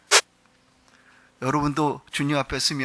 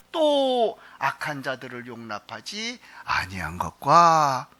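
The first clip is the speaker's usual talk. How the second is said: slow scripture reading; 2 semitones lower, slower than usual. Shown as a demonstration. Pastor reads the verse to the congregation, slow and deliberate. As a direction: read the verse out slowly and evenly.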